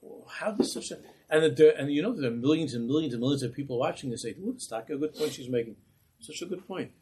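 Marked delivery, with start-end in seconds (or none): 4.4-6.9 higher, softer mock approval; a hint of an impressed onlooker; lightly voiced admiring viewers. Rabbi imitating people watching the news, lightly mocking approval.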